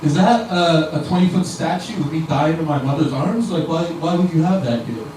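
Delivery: a hint of Jesus horrified at his own statue; lightly voiced appalled Jesus. Jesus gaping at a church statue of himself, lightly voiced.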